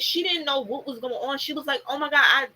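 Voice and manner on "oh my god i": flustered disbelief. Retold or imitated. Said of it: "She was flabbergasted".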